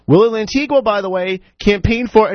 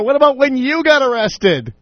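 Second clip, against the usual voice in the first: higher-pitched mock yell; retold yell; 6 semitones higher than usual. Radio host mimics mayor yelling at team member, mock yell. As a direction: imitate an angry yell, pitched up. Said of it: "he starts yelling at her".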